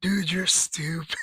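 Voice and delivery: whispered through laughter; breathless whisper while cracking up; busting up. Retold or imitated. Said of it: "busting up 'cause I'm like".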